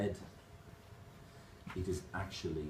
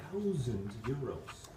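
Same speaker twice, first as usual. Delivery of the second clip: slow, stretched-out barman's answer; drawn-out price; slower than usual. Acted. Barman telling the customer the parrot's price, drawn out. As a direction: draw out each word of the price.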